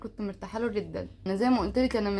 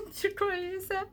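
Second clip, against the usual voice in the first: soft concern; 6 semitones higher, 9 dB quieter than usual. Retold or imitated. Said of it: "فاللي هو".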